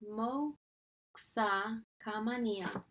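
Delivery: "Moxa Kamania" very slowly, broken into pieces; drawn-out teaching repeat of "Moxa Kamania"; sounded out. Shown as a demonstration. Repeats foreign phrase for learners.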